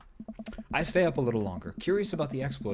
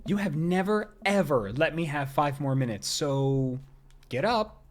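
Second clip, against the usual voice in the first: Amanda's voice. Acted. Wife refusing husband's plea, lightly voiced teasing. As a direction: tease him out of bed. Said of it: "I'm no Erika Ishii, but I'll try".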